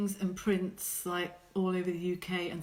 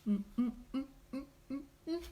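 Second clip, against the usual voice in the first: humming; 5 semitones higher, 7 dB quieter, much faster than usual. Real, not acted. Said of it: "That was very rude".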